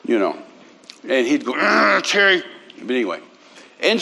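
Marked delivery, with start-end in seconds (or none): 1.6-2.4 imitated tearful groan, pitched up; mock crying. Preacher mimicking a man who'd cry for money, mock crying. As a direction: groan the name as a mock sob. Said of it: "he'd get up and cry".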